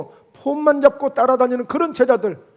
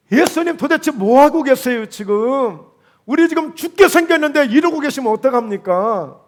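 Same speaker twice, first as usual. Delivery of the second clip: panicked disciples; 3 semitones higher, 5 dB louder than usual. Acted.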